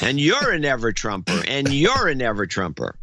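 Oprah giveaway sing-song; Oprah-style mock. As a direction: hand it out like Oprah. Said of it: "it's like Oprah".

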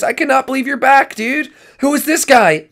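high, loud, excited exclaiming; thrilled disbelief. Acted. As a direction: burst out with amazement at a friend's return. Excited reunion with friend.

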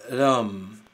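ram said alone, closing on the M; ram syllable. Shown as a demonstration. Teacher giving the final syllable of Autumn. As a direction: land the second syllable ram. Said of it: "Se debería de escribir A, ram".

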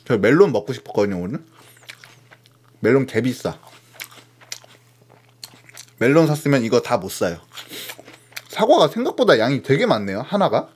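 chewing while talking; eating mid-sentence; mouth full of apple. Real, not acted. Seen 2: Bitten apple in hand throughout; mouth looks full between phrases.

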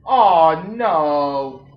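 loud, high shriek easing into dismay; alarmed cry. Real, not acted. Player spotting a worm in the game, alarmed cry. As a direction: cry out high and loud, then sink into a long no.

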